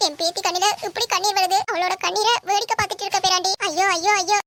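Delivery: put-on wailing; mock lament. Grandmother backing the girl's act, mock wailing. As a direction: lament theatrically, as if wronged. Grandmother joins the staged crying.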